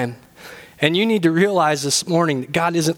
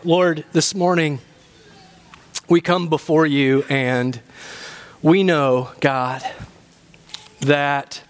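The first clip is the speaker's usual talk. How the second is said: measured, lower-pitched prayer with long pauses; 3 semitones lower than usual. Real, not acted. Pastor praying to the Lord for congregation, prayerful. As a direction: pray aloud, pausing to find each phrase.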